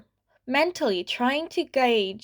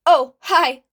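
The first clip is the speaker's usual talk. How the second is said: forced bright hi; 4 semitones higher, 10 dB louder than usual. A narrator's reading. Teary kid greets hero.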